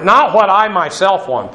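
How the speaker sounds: emphatic weight on "I myself"; stress on I MYSELF. Shown as a demonstration. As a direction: lean on the words "I myself". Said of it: "it's emphatic here".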